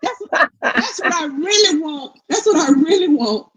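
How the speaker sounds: words squeezed through laughter; laughing while talking. Real, not acted. Viewer cracking up at her own fantasy, laughing. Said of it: "laughing through it".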